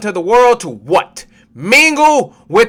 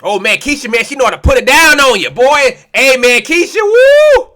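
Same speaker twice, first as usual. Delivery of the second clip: mock heathen man; 4 semitones higher, 3 dB louder than usual. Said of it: "They hear about your exploits".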